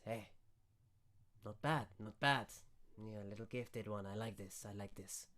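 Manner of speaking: approving wizard. Acted. Game master voices the wizard.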